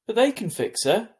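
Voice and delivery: high, loud protest; pleading insistence. A narrator's reading. Boy insisting to Mum that vets can fix the dog, high and loud. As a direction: refuse to believe it. Augie pleads against bad news.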